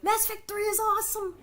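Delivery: high, excited mock nerd; mocking a nerdy fan. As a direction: squeal it like an overeager gamer. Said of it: "Nerdy Neo, of course, coming with".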